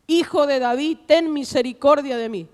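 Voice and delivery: mild mock cry for mercy; retold plea. Blind man crying out to Jesus over the crowd, retold plea. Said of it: "él clamaba mucho más".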